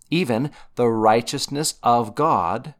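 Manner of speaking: weight on RIGHTEOUSNESS OF GOD; emphatic scripture reading. Shown as a demonstration. Teacher bringing out the repeated phrase in verse, stressed. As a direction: land firmly on "righteousness of God". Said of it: "emphasize the word I wanna bring out".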